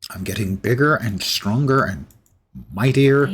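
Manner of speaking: lightly hammed Russian accent. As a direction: boast in a put-on Russian accent. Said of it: "the Russian accent's not going to get any better".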